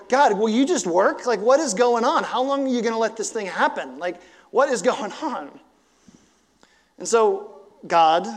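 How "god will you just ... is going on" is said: loud, higher, pleading questions; desperate cry to God. Retold or imitated. Desperate prayer while driving.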